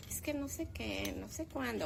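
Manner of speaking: imitando a una fresa, más agudo y más suave; voz de fresa. Retold or imitated. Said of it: "que hablan así como muy". (imitación de niña fresa, aguda y suave)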